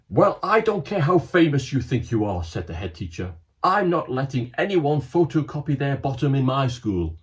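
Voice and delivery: loud, indignant head teacher; stern scolding. Acted. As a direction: tell off the visitors.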